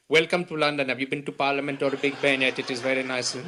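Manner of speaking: put-on London British accent. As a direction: clear the throat, then put on a posh London British accent. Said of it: "working on my London British accent".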